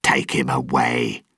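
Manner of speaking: curt, mild command; a light cold order. A narrator's reading. Mercer orders soldiers to take the governor, cool command. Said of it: "Mercer ordered the soldiers".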